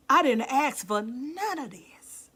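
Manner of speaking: slow, breathless hush; real tearful whisper; emotional whisper. Real, not acted. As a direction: let the feeling catch your breath. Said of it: "that makes me emotional".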